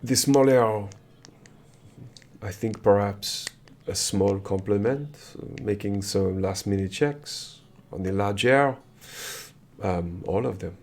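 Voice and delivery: lightly voiced French prince, halting; measured prince with a French accent. Plays the French-speaking prince.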